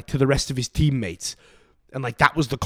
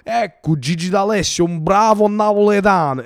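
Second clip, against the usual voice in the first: louder, higher Italian TV host voice, a patronizing Neapolitan lilt; patronizing Neapolitan accent; 6 semitones higher, 7 dB louder than usual. Retold or imitated. TV host welcoming a singer to the stage, patronizing Neapolitan accent. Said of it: "this patronizing Napoletan accent to welcome a singer".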